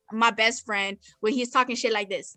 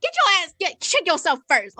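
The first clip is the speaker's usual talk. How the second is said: higher-pitched retold clapback; indignant comeback; 5 semitones higher than usual. He snaps back at the scrawny friend, indignant. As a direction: fire back, pitched up and sassy. Acting out his heated comeback.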